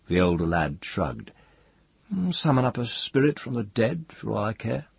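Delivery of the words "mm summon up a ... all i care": high, careless sneer; disdainful Jasper. A narrator's reading. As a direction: toss it off with disdain. Jasper shrugs off rival's question.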